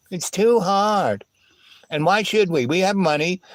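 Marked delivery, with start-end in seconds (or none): 0.1-1.2 slow whiny mock of the excuse; slow, mocking whine. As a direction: drag it out like a lazy excuse. Mocking others' excuse again.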